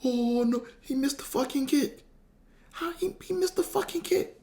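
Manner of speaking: high falsetto imitation of dad's disbelief; hammed-up, squealing despair; devastated lamenting. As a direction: wail it way up high. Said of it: "That's all I heard for".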